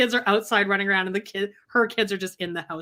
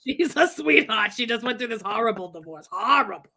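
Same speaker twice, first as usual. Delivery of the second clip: lightly voiced old Jewish woman. Telling guests about Robin's divorce, lightly put-on yenta voice. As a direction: confide it like a gossipy yenta. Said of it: "Where is this voice coming from?".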